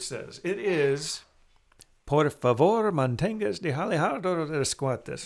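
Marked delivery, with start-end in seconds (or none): 2.1-5.3 train station announcement. Shown as a demonstration. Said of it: "my bad version of".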